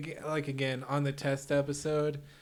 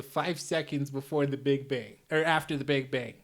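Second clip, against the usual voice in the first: put-on light Chicago accent in character; villain with a mild Chicago accent. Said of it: "I'm doing the Undoer voice here".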